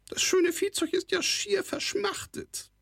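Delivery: whispered goblin voice, scheming; a scheming goblin whispering slyly. A narrator's reading. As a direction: hiss it as a sneaky goblin aside. Kobold sly aside.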